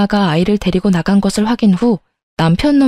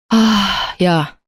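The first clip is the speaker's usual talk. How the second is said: choked up; much slower than usual. Acted. Husband dismisses father's death.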